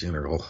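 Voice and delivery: "integral" slurred to INNER-ul, no T; sloppy speech. Shown as a demonstration. Showing sloppy speech, "integral" as INNER-ul. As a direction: let "integral" collapse into INNER-ul, softly. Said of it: "that's just sort of sloppy speech".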